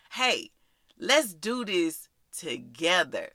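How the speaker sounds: unhurried, gently inviting; slow down and welcome them in. Shown as a demonstration. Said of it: "you're inviting them in and saying".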